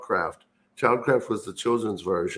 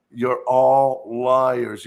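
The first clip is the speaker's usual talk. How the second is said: slow, loud and drawn out, every word weighed; angry accusation; 4 dB louder, much slower than usual. Retold or imitated. Child accusing his parents of lying, slow and loud. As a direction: hurl the accusation at the parents as a kid. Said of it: "I said".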